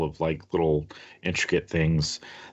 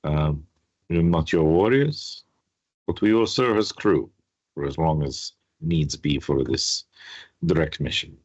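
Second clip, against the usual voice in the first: Quentin. Acted. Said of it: "Quentin goes".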